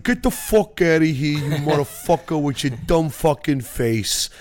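pissed-off New York fan yelling in a mock New York accent; angry New York accent. Yankees fan telling off an Astros fan, mock New York accent yell. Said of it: "there's this New York accent that I just can't even do".

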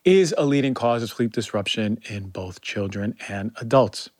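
upbeat podcast ad read, selling it; sponsor ad read. Acted. Host reads a sponsor spot to listeners, upbeat ad read. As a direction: pitch the supplement like a trusted friend.

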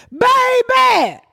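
put-on high, drawn-out call of baby. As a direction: stretch it out high and sweet. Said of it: "And he said".

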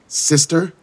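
high startled question; surprised. Acted. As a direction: blurt it out in shock. Iris stunned by revelation.

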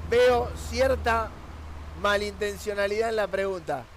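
ironic mock accusation, deliberately emphatic; mock-accusing irony. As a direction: lightly feign suspicion, leaning on the opening words. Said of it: "eh, irónicamente". (ironía, fingiendo una leve acusación)

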